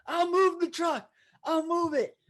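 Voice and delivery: high frantic pleading voice; panicked retreat. Retold or imitated. Telling the truck drivers he will move, high and frantic. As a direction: cave in fast, flustered. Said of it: "I'm like".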